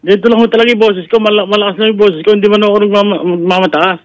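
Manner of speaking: high-pitched, insistent self-defence. Real, not acted. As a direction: protest that this is just your voice. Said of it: "di wag ka mamiloso po".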